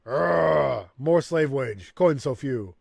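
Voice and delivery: loud, bitter orc groan then grumble; angry orc labourer. Acted. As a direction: growl out the injustice.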